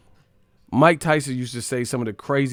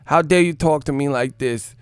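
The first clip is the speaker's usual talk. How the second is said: louder, indignant Tyson voice; mock outraged Mike Tyson, raised voice; Mike Tyson impression; 5 semitones higher, 6 dB louder than usual. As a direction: play an offended Tyson, loud and high. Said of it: "Mike was like".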